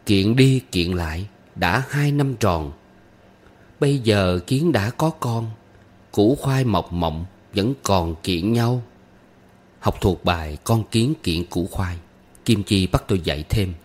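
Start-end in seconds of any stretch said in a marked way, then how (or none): 0.1-8.8 slow, measured verse reading; unhurried teaching recital of a children's verse; folk rhyme recitation. A narrator's reading. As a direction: recite the rhyme line by line, lingering.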